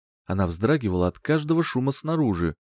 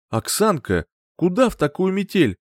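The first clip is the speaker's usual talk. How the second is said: reluctant refusal; 8 semitones higher, 4 dB louder than usual. A narrator's reading. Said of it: "хотел было отказаться мужчина".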